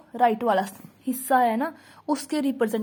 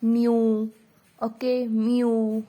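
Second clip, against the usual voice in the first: slow demo word; much slower than usual. Shown as a demonstration. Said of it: "more example like value".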